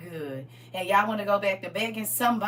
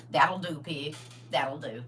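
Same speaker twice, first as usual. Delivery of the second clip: farmer quote; 8 semitones lower, 4 dB quieter than usual. Retold or imitated. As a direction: lightly voice the farmer from Babe. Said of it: "he was the first shepherd pig".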